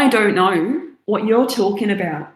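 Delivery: hammed-up Australian accent; Australian accent drifting toward New Zealand; attempted Australian accent. Shown as a demonstration. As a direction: feign innocence in a put-on Australian accent. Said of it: "I can do a really good Australian accent".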